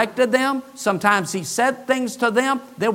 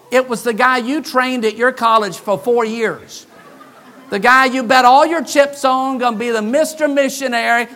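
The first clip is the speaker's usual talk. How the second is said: laughing; 4 semitones higher, 5 dB louder than usual. Real, not acted. Laughing through the punchline.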